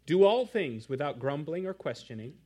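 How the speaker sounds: measured, deliberate Bible reading; scripture reading. Acted. Pastor reading Philippians aloud to his congregation, measured and solemn. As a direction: read the passage with weight.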